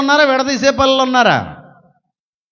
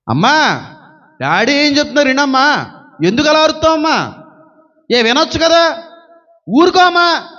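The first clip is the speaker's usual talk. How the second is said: son hushing mother; 5 semitones higher than usual. Retold or imitated. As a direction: beg mum to stop shouting. Son calming shouting mother. (అమ్మను ఊరుకోమని బతిమాలే కొడుకు)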